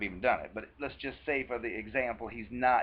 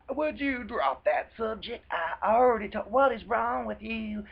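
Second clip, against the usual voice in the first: higher, slow and exasperated; annoyed partner dismissing his girlfriend's hurt; irritated snap; 8 semitones higher, 4 dB louder than usual. Retold or imitated. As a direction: lash back as if she is the problem. Abuser irritated at gentle complaint.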